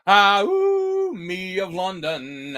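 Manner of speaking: high cry then slow mutter; lightly voiced vampire. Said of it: "Vampire went".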